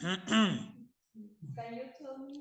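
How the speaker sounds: effeminate male voice. Reading the man's role in a class dialogue: womanish man's voice. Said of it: "that's a very womanish man".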